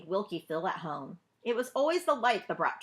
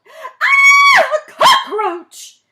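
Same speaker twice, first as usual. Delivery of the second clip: piercing scream, far higher and louder; terrified shriek; 18 dB louder, much slower than usual. A narrator's reading. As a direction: shriek in horror, drawing out cockroach. Box opens, cry of terror.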